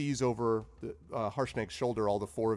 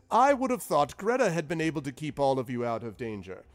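high and louder fond question; kindly wizard; 6 semitones higher, 6 dB louder than usual. Acted. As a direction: dote on her. Zephyros to Greta.

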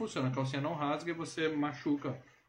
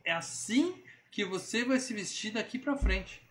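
bossy man; 8 semitones higher, slower than usual. Retold or imitated. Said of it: "Ele fala".

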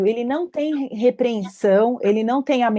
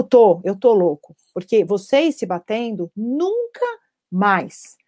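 mock angry father; slower than usual. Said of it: "dá um berro".

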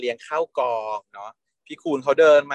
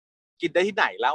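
snippy retort; 4 semitones higher, slower than usual. Retold or imitated. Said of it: "เหวี่ยง".

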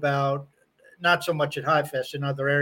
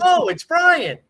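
surprised; 14 semitones higher, 7 dB louder, slower than usual. Retold or imitated. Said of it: "Then they're like".

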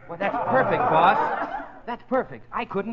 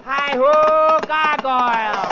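rallying shout; 9 semitones higher, 11 dB louder, much slower than usual. Acted. Rallying cry setting off.

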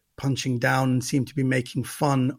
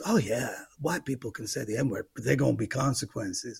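lightly imitated, softer comedian's reply; Whoopi Goldberg; 3 semitones lower, 5 dB quieter than usual. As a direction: quote her with a hint of impression, dropping softer. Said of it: "And she goes".

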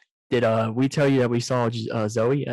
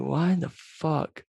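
drawn-out, higher-pitched disbelief; mock bafflement; 5 semitones higher, much slower than usual. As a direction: stretch it out slowly, acting baffled. Retold baffled reaction to cheating.

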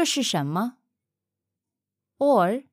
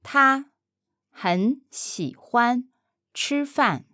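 他，很喜欢，吃饭 in slow separate chunks; chunked slow model; 3 semitones higher, slower than usual. Shown as a demonstration. Mandarin teacher chunking the phrase slowly for the learner. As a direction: break 他很喜欢吃饭 into pieces for the learner. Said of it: "broken into chunks for learner".

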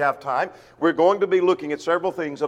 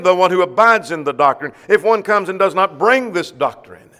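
preaching emphasis; 6 dB louder than usual. Real, not acted. Preacher repeats the key verse.

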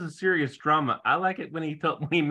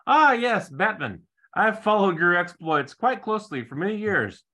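fawning rich guy; 5 semitones higher, 3 dB louder than usual. Retold or imitated. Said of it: "the guy who owns the cat says".

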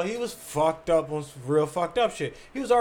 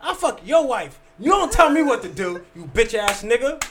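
retold loud comeback; 3 semitones higher, 5 dB louder than usual.

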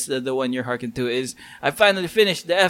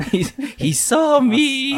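mock alarm; 11 semitones higher, slower than usual. Caught playing, mock alarm.

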